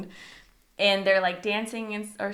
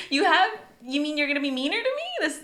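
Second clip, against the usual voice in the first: fast, high, loud mock protest; hammed-up incredulous comeback; indignant disbelief; 7 semitones higher, 8 dB louder, faster than usual.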